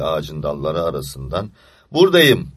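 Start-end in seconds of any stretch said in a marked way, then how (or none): 1.9-2.5 loud high call from a treetop; shout. Acted. Anton calling from the tree to the searching children, shouting. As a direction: call down to friends far below. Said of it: "diye bağırdı".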